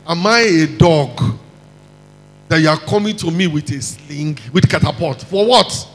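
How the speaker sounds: mildly indignant, half-acted Goliath outrage; angry giant. Goliath mocking David for the sling, mildly indignant. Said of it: "And the man was angry".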